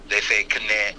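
"Kne" with the K sounded, k-neh; "Kne" said German style, K then neh. Shown as a demonstration. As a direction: pronounce the K in "Kne", not silent. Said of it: "They pronounce every letter".

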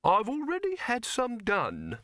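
high, slow, stiff reply; cold retort. A narrator's reading. Silverfish putting Dibbler in his place, slow and cold. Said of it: "said Silverfish coldly".

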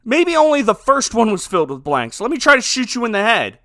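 loud, animated comic role-play; emphatic, hammed-up thinking out loud; mock reasoning aloud. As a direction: act out a ridiculous gunfight debate. Acts out absurd gunfight dialogue.

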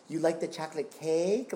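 high put-on Cosby voice; Bill Cosby impression. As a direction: quote it like Cosby. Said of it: "my dad would quote Bill Cosby's".

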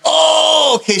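high squeaky surprised oh, okay; startled high-pitched oh. Retold or imitated. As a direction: jump way up on the oh in mock surprise. Surprised reaction retold.

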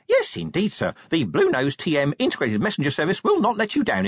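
high, eager little messenger voice; squeaky, gung-ho official patter; enthusiastic imp. A narrator's reading. Imp saluting Vimes with its service promise, enthusiastic. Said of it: "from despair to enthusiasm".

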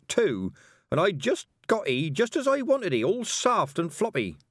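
put-on old villager complaining to anyone who'll listen; grumbling old villager. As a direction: rant like an old man robbed of his boots. Nosey Hines complains about boots.

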